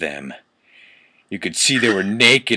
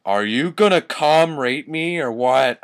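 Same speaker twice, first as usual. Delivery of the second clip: hammed-up yell, higher and a bit louder; mock yell; 4 semitones higher, 4 dB louder than usual. Reading the fanfic aloud, a mild mock yell. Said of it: "I yelled".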